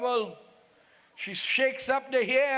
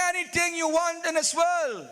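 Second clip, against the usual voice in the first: raised, higher cry of promise; desperate vow; 4 semitones higher than usual. Acted. King shouting his vow to the queen, pleading. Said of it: "He says".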